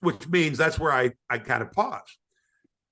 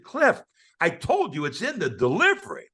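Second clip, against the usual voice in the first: raised, exasperated voice at a stubborn friend; retold exasperated shout; 2 semitones higher than usual. Retold scolding of Cliff.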